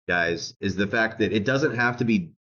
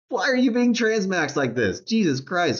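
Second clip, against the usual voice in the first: laughing mockery; 9 semitones higher than usual. Real, not acted. Laughing mock at opponents.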